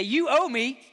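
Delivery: hammed-up finger-pointing complaint; pointed accusation. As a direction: act out a grudge, demanding what's owed. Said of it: "point his finger at Peter and say".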